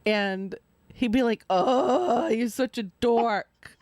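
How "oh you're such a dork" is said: long, drawn-out groaning complaint; slow, weary mock whine; mock exasperation. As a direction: imitate a fed-up partner, dragging it out. Retelling impatient partner's nightly complaint.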